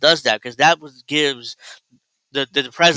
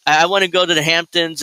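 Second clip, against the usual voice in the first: mock whiny wife; 3 semitones higher than usual. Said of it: "She's like".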